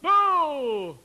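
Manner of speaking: high, loud held syllable; calling voice. Shown as a demonstration. Teacher demonstrating belted vowels, calling out. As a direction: belt it like a hail. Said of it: "it's in your calling voice".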